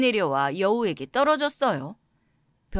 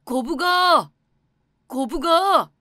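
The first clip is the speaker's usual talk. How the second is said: loud, high call to someone far off; 6 semitones higher, 7 dB louder, slower than usual. A narrator's reading. Scholar summoning the turtle at the seaside, calling out. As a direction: call out with the last syllable held high. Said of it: "선비가 거북이를 부르자".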